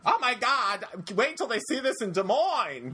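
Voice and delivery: high gushing tourist voice, laughing; excited tourist. Retold or imitated. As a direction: gush like a wide-eyed visitor.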